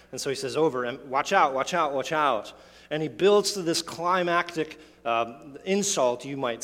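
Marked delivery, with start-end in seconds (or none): 0.1-2.5 hammering each out in watch out; emphatic repetition. Shown as a demonstration. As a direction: punch the word out every time. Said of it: "is emphatic".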